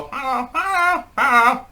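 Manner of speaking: very high, drawn-out parrot squawk; high imitation of a mimicking parrot. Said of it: "And they're saying".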